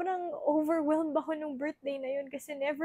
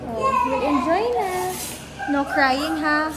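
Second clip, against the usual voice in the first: higher, louder gentle scolding; 4 semitones higher, 9 dB louder than usual. Real, not acted. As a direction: mom telling her son not to cry at dinner. Soothing birthday child.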